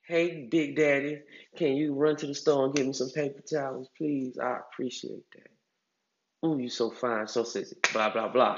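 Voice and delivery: soft, lightly voiced sweet-talk, trailing to a whisper; sweet-talking woman. Woman sweet-talking her man into a store run, soft coaxing voice. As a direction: coax him gently, stroking his ego. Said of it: "if she word it right".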